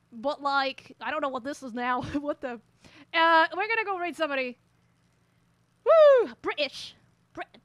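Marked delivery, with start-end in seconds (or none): 5.8-6.3 high loud whoop of glee; a big happy woo, much higher and louder; excited whoop. Real, not acted. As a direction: let out a joyful cheer. Excited whoop mid-game.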